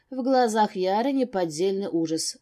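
plain reading voice

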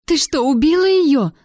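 high, loud shocked question; alarmed cry. A narrator's reading. Primrose sees her friend knocked out, crying out. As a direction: cry out in horrified disbelief. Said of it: "закричала Примроуз".

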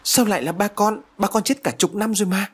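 can't believe what she hears; stunned disbelief. A narrator's reading. Daughter told her dead father called, stunned disbelief. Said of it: "khiến cho Phượng sững sờ".

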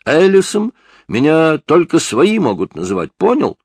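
put-on high, loud defiant teen snapping back; cocky youth. A narrator's reading. Teen suspect mouthing off at the detective, high and loud.

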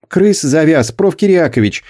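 put-on high, thin pleading boy's voice; plaintive squeak. A narrator's reading. Boy pleads with the stoker boss, plaintive squeak. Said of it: "жалобно пропищал Петька".

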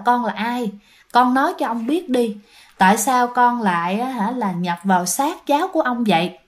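put-on a touch of a kind old man soothing a child spirit; gentle voice. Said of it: "ông mới dịu giọng". (giọng dịu dàng, nhẹ nhàng dỗ dành)

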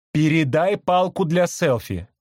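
high, slow parrot squawk; a parrot demanding the selfie stick. Acted. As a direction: say it like a bird. Parrot speaks.

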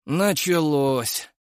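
slow, drawn-out and weary; eye-rolling. A narrator's reading. Yuri rolls his eyes at Seriy's show, slow and weary. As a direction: sigh it out fed up. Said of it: "закатил глаза Юрий".

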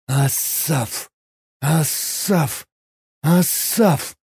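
inner call. Acted. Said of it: "мысленно позвал".

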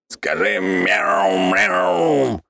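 high echoing ethereal being; otherworldly voice. Acted. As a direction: speak like a spirit from beyond. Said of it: "произнёс Клювик потусторонним голосом". (потусторонний голос)

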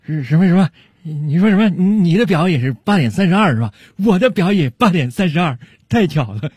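delighted. Acted. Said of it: "特别喜悦地说道".

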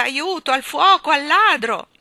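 high, very loud cry of alarm; alarmed shouting. A narrator's reading. Postman calling for any rescue, alarmed shouting. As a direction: raise the alarm at full voice.

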